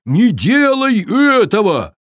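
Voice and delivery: loud, pleading command; urgent shout. A narrator's reading. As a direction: stop him in a hurry. Viking urges giant.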